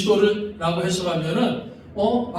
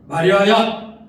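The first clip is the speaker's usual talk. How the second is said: a louder call of the name; Jesus calling Mary; 6 dB louder, slower than usual. Acted. Jesus calls Mary, a louder call. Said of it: "이렇게 예수를 부르니까".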